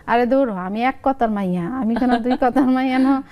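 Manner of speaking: lively two-sided Lakshmipur dialect skit. Shown as a demonstration. Mother and son arguing over her age, in Lakshmipur dialect. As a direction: act out the squabble in Lakshmipur regional speech. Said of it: "আমি আঞ্চলিক ভাষায় বলি".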